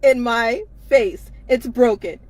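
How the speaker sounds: loud, insistent, words spaced out; exasperated demand. Real, not acted. Woman demanding that they look at her and listen, exasperated.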